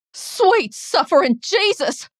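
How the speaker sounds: high, loud, slow exclamation of horror; appalled, high-pitched oath; shocked outcry. A narrator's reading. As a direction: cry out aghast, drawing out each word. Aunt's shocked outcry at the sight.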